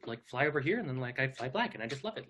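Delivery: lightly voiced Portland guy, quick at first then fading; breezy Portland dude, trailing off; a hint of Bill Hader doing the Portlandia guy; impression of an impression. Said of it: "a really spot-on impression".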